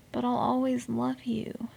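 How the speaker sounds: soft, resigned declaration of love; mock-tender surrender. Fan forgiving the show like an ex, softly.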